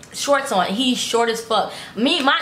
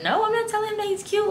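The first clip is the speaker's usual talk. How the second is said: retold protest; 12 semitones higher, 3 dB quieter than usual. Acted refusal to mom.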